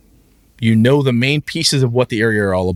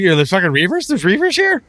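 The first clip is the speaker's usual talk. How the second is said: panicked player; 11 semitones higher, 3 dB louder than usual. Retold or imitated. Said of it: "The player's like".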